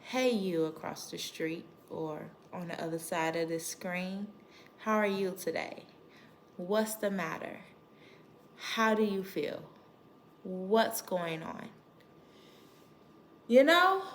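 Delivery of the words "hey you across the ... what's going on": put-on softer, lower, gentle check-in with a child; talking to a child. Shown as a demonstration. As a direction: speak down on the child's level, gently. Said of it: "let me pretend that you're the child".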